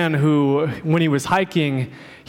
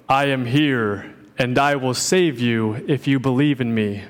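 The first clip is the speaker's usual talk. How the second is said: booming voice; 3 semitones lower than usual. Retold or imitated. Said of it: "a booming voice spoke up".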